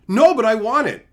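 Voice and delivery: mock the greedy trader pleading; whiny trader. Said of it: "mocking whiny trader".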